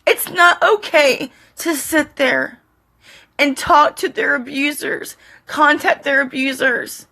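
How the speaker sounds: fighting back real sobs while making the point; crying. Real, not acted. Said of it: "make fun of me being emotional right now".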